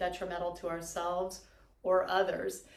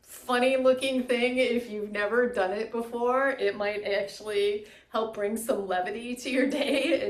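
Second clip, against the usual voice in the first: louder, lifted, laughing a little; amused; 3 semitones higher, 6 dB louder than usual. Real, not acted. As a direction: let real amusement bubble into the words. Amused by the silly-looking exercise.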